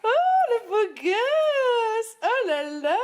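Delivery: high, very slow, loud admiring coo; doting gush. Real, not acted. Mother admiring her little boy, high drawn-out gush. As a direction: gush over how handsome he is.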